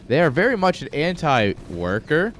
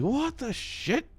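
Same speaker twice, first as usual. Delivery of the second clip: mock disbelief; 13 semitones higher, 7 dB quieter, slower than usual. Disbelief at doubled donut prices.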